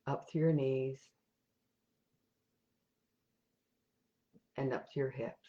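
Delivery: calm, even meditation guide with long pauses; guided meditation. Real, not acted. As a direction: lead them gently step by step, leaving silences between instructions.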